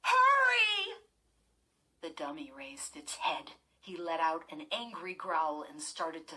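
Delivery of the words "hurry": high, loud hurry; urgent shout. A narrator's reading. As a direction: yell for them to hurry. Chris crying for help.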